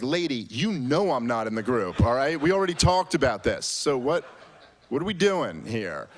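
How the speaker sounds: fed up, calling her out; half-laughing irritated comeback; annoyed retort. Retold or imitated. Annoyed reply, third time asked.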